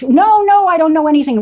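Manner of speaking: screaming, high and loud. Retelling her own reply while being threatened with a chain: retelling her own scream. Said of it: "We're screaming back and forth".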